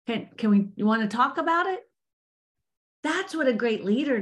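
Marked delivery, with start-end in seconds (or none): 0.1-1.8 gentle check-in. Retold or imitated. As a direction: ease off and ask kindly what's wrong. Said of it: "stepping back and going".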